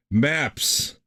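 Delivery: lightly voiced drunk barbarian; drunken barbarian. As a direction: grunt it like a tipsy brute. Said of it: "in my best drunken barbarian act".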